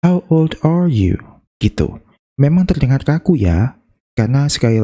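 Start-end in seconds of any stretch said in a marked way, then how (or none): 0.0-1.1 slow, falling on the last words; stressed question. Shown as a demonstration. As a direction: model the stress for beginners. (intonasi penekanan, turun di akhir)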